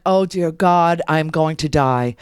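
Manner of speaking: low, slowing, doomed aside; mock dread. Patient realizing who the nurses are, mock dread. Inner dread at political questions.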